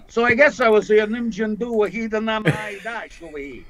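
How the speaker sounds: put-on Cree words in a Brooklyn accent; a wiseguy from Brooklyn speaking Cree. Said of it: "she said I sounded like I was from Brooklyn".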